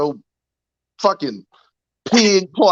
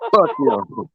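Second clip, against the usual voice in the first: high squealing laugh into the curse; cracking up mid-roast, shrieking it out; laughing shout. Real, not acted. Roasting Kyle over stream, shrieking with laughter.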